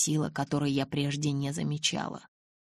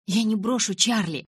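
higher and louder yell; 6 semitones higher, 5 dB louder than usual. A narrator's reading. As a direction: scream she won't abandon him. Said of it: "заорала я". (крик, выше и громче)

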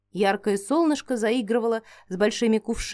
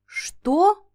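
surprised; 9 semitones higher, 3 dB louder than usual. A narrator's reading. Both turn in surprise.

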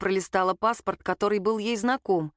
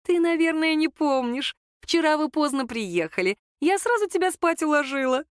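soft ingratiating mother-in-law; 7 semitones higher than usual. A narrator's reading. Свекровь ласково обращается к невестке — мягкий вкрадчивый голос. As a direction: coo over her like a scheming aunt. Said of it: "мягкий, вкрадчивый".

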